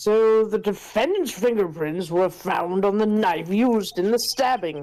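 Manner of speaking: put-on older, authoritative judge voice. Voicing the judge in a courtroom scene: older rich man judge voice. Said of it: "That's a good judge voice".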